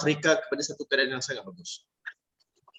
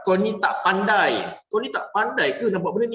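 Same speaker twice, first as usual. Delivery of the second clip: harsh put-down; 4 semitones higher than usual. Shown as a demonstration. Coach shows the wrong way to scold, scornful. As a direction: drag out the insult with contempt. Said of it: "Jangan cakap".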